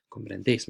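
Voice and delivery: comprendes repeated softly, final "des" stressed as "déis"; soft comprendes with the weight on DÉIS; stress on last syllable. Shown as a demonstration. Teacher telling students to accentuate that stress, softly stressing the end of comprendes. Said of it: "Make sure you really accentuate that stress".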